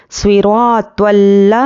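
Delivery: slow سوئی را تل, pressing and holding the l; firm doubled laam. Shown as a demonstration. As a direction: lean firmly on the l of تل. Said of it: "سختی سے پڑھنا ہے".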